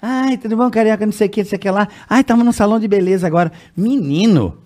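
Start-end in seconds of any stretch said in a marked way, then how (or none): 0.0-3.5 imitated chatty saleswoman. Radio saleswoman chats over coffee, imitated gossipy voice. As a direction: chatter along as the office gossip.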